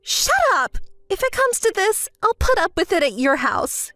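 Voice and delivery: high, indignant interruption; irritated outburst. Acted. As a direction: cut them off in a huff. Cuts off friend's scolding.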